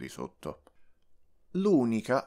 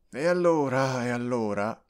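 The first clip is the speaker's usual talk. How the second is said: flaring up; 2 semitones higher, 4 dB louder than usual. Acted. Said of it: "accendendosi tutto nel volto".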